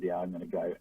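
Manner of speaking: soft, gently retold agreement; kindly, sweetly. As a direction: quote a sweet yes, hushed and a little low. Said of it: "very kindly, sweetly said".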